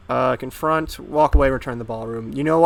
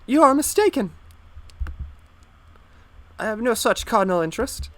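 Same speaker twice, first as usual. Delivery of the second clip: a scandalized lady's falsetto outburst; affronted falsetto lady; 9 semitones higher than usual. Acted. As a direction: shriek it like a shocked society lady. Falsetto lady rebuffs suitor.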